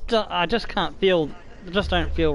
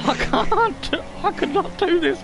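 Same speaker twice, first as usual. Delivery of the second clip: scared; 13 semitones higher than usual. Real, not acted. Scared by the camera view.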